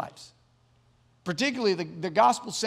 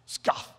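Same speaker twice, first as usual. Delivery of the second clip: a short scornful scoff, said as the word Scoff; voiced mock Scoff at normal volume; scoff imitation. Shown as a demonstration. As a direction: sneer out a quick Scoff. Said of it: "That's my imitation of a scoff".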